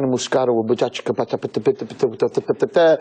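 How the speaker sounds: rapid patter of wine names; rattling gibberish. Acted. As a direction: rattle it off in nonsense syllables.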